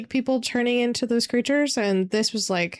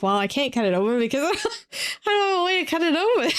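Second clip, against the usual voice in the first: laughing exasperation; 8 semitones higher, much faster than usual. Retold or imitated. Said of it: "And I'm like".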